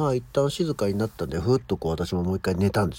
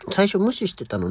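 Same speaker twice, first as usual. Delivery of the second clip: fast self-quote; 10 semitones higher than usual. Shown as a demonstration. Host quickly repeating her own words about ignoring the cat, fast. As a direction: rattle the phrase off fast. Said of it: "っていうぐらい".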